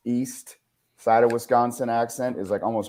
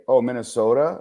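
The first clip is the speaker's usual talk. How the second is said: put-on Minnesota accent; 4 dB louder than usual. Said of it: "people would say".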